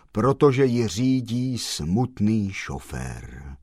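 slow, low and soft, grieving; mournful. Acted. Black gentleman explaining to Kolbaba, mournfully slow. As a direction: mourn every word slowly. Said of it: "pravil truchlivě".

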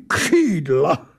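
offended angel, rising in protest; the angel scoffing at the talk of wings; indignant. Acted. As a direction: bristle at the word. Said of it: "zvolal značně popuzen".

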